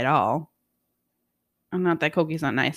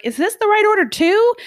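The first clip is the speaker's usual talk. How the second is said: retold question; 13 semitones higher, 7 dB louder than usual. Retelling her question at the window.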